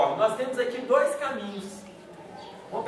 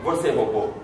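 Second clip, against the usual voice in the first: gentle question; 7 semitones lower than usual. Retold or imitated. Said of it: "eu perguntei pra ele assim".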